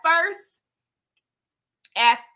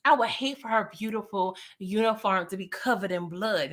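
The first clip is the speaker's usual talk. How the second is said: menacing threat; 4 dB quieter than usual. Retold or imitated. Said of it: "she's starting to threaten his daughter".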